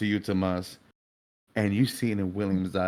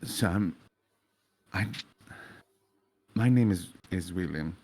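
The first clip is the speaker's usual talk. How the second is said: put-on softer, calm, sincere young man; gentle William, softly apologetic; 3 semitones lower, 3 dB quieter than usual. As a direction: speak quietly and kindly to him. William answers the grieving father.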